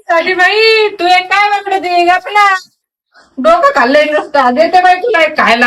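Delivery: high, sharp telling-off to hush; exasperated scolding. Real, not acted. Woman tells her bleating goat to hush, high and exasperated.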